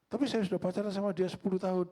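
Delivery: put-on half-joking protest to the old pastor; mock pleading groom. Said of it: "Kalau saya bilang".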